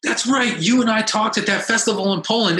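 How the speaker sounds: high-pitched "oh shit" as it clicks; excited mock realization; retold surprised recognition. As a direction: imitate someone suddenly remembering, pitch jumping up. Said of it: "he actually says".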